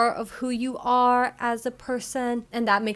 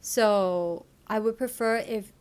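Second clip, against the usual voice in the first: clear example. Shown as a demonstration. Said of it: "Number one, clear".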